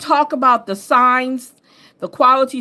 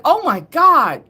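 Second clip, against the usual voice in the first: high, astonished mock friend; shocked northern friend; 10 semitones higher, 4 dB louder than usual. Friend up north shocked by her lazy talk, high and astonished. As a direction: gasp it out like a stunned old friend. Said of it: "they're like".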